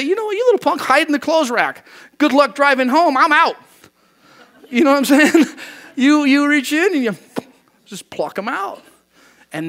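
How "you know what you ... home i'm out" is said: much higher, louder hammed-up parent snapping; mock fed-up parent. Parent mocking a misbehaving kid at the store, hammed-up and loud. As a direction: ham up a parent storming off. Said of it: "The parent doesn't say".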